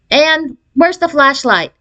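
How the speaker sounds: calling out. A narrator's reading. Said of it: "he called to my mother".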